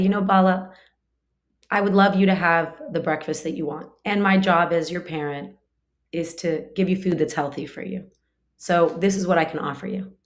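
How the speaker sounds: put-on gently reasoning with a child; composed, caring parental explanation; calm, kind parent. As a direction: calmly explain to your child, at an even pace. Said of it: "if I stay calm and I model what I want".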